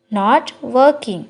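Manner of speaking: slow, careful model phrase; slow teacher demo of the English. Shown as a demonstration. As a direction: spell it out slowly for learners. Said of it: "slow model phrase".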